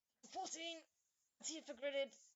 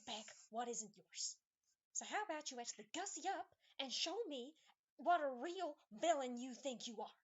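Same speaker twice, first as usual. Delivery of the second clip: stern lecture; 3 dB louder than usual. Acted. Tifa lecturing partner after bumping him.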